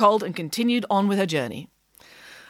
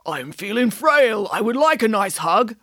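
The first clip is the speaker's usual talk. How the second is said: fake frail granny. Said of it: "lied the wolf".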